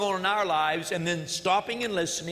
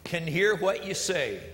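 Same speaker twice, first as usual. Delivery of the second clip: slow, spoken song lyrics; slow lyric recitation; reciting lyrics; slower than usual. Shown as a demonstration. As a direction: read the verse slowly, savoring them. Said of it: "The second verse says".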